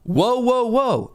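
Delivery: high-pitched call after clearing the throat; attention-getting call. Retold or imitated. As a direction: cut in to get heard. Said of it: "no one heard me. So I was like".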